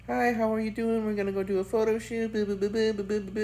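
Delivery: high-pitched mock bubbly influencer voice. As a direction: pitch it up, chirping like a TikTok influencer. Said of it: "she's all bubbly".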